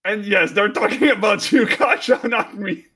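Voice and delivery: high, loud singsong tease; singsong teasing. Real, not acted. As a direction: sing it out to needle a friend. Teasing a teammate about accent.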